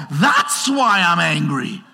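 slow, shouted reveal; mock angry answer. Angry viewer pointing at the TV news, slow and shouted. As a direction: point at the TV and let it land. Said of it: "you go".

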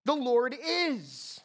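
"The Lord is" very slow, landing hard on "is"; stress on is. Shown as a demonstration. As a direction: pose « is » très lentement, en descendant. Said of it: "though he will and he was".

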